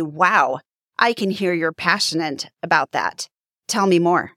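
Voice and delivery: closed-off, uninterested. Shown as a demonstration. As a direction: say it like you don't really care. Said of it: "Do you hear the difference?".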